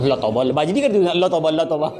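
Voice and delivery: low, mock-horrified muttering; shocked refusal. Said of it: "शहीमा उस दिन बता रही थी". (हल्का नाटकीय डर, धीमी आवाज़ में)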